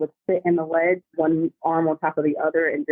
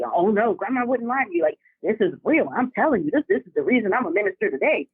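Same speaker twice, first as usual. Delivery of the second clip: imitating grandma; 3 semitones higher than usual. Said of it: "And that's how she talks".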